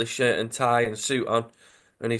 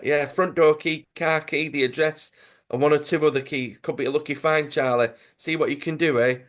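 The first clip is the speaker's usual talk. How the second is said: slightly raised, lightly voiced London accent; a hint of London crook, pitched up; 4 semitones higher than usual. Crook in a dodgy pub hands over a job, in a light London accent. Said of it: "They're like".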